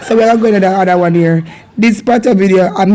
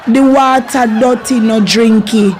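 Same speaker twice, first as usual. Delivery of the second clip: Patois phrase. Shown as a demonstration. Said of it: "repeated for learners".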